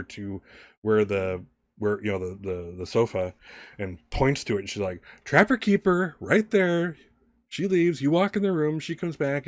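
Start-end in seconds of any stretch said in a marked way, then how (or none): 5.2-9.5 high-pitched, indignant accusation; angry stepmother. Acted. Stepmother pointing at the sofa, accusing Alice angrily. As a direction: lay out the evidence in a raised pitch. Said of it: "very angrily".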